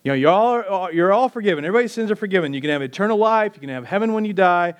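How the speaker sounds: lightly voiced, breezy Jesus announcing; Jesus casually telling a hillside crowd everyone's forgiven, breezy. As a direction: toss it off like a quick farewell. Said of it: "get them all together and say".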